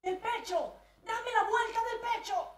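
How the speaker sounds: high, loud impatient command; frantic high yell from the bed; urgent shout. Retold or imitated. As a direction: bark the order in a panic. Father yelling instructions.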